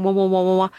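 low, even run of wahs; imitated pulsing sound. Kenji dying in the sound wave room, imitated pulsing wahs. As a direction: throb the wahs rhythmically. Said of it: "With the pulsing".

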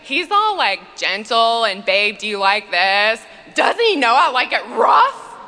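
imitating an exasperated wife venting; hammed-up marital complaint; complaining gym mom. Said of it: "she's like".

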